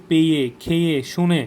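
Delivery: "পেয়ে, খেয়ে, শুনে", each ending on a clear এ. Shown as a demonstration. Teacher listing examples, clear এ endings on "পেয়ে, খেয়ে, শুনে". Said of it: "একটা কিন্তু এ উচ্চারণ হচ্ছে".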